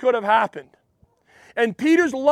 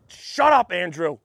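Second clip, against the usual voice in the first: retold irritated retort; 5 semitones lower than usual. Peter snaps back at brother.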